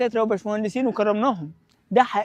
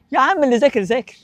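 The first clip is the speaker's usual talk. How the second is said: lightly voiced naysayer, dismissive; a hint of a gloomy friend talking you down; discouraging people. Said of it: "الناس المحبطين اللي بيقول لك". (تقليد خفيف لصوت شخص محبط)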